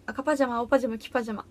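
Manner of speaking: tongue-twister recital. Shown as a demonstration. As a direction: show off your diction on a tongue twister. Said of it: "早口言葉言える".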